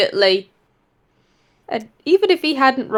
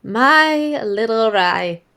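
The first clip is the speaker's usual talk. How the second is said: 1 tender; much slower than usual. Acted. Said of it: "just goes".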